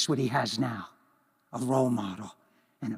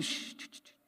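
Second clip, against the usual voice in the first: soft unvoiced shushing; calm him down with a hush; a gentle shh to settle an angry coworker; soothing hush; 13 dB quieter than usual. Hushing the angry man.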